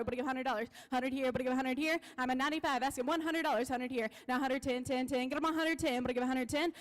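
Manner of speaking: rapid rolling auction chant; auctioneer. Acted. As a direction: rattle off the bids like an auctioneer. Auction chant bid calling.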